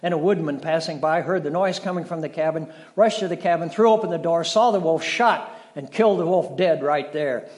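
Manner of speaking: hammed-up action reading for kids; dramatic storytelling. Father acting out the woodman's rescue for his children, dramatic. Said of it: "I really get into these stories".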